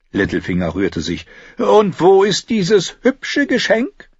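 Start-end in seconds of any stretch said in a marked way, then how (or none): 1.6-4.1 slow, high, teasing courtier; sly mockery. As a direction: needle the knight with a smirk. Courtier's sly mocking question.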